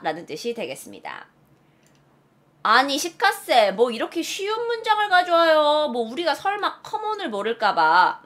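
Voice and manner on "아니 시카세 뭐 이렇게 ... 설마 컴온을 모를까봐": raised, slowed, exaggerated complaint; grumbling like an affronted student; mock protest. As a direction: whine in mock protest, dragging the endings.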